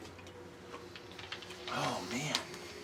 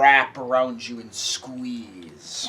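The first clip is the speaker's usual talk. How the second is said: game master narration; 3 dB louder than usual. A narrator's reading. GM describes the attack.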